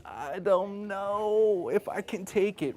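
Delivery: high, slow, whiny voice of a reluctant woman; reluctant skeptic. Retold or imitated. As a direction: whine it out like she's dreading it. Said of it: "she's like this".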